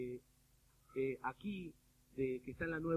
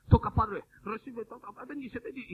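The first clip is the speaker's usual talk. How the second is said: imitated praying pastor; 4 semitones higher, 8 dB louder than usual. Imitates pastor praying over woman.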